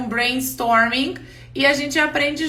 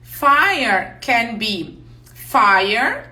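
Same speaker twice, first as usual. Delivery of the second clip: very slow, every word of "Fire can be fire" stretched; slow teaching example; much slower than usual. Shown as a demonstration. Teacher slows way down to explain "fire" to the class. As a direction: spell out "Fire can be fire" slowly for learners. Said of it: "Vou ajudar nisso".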